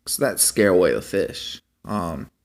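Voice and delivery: normal talking voice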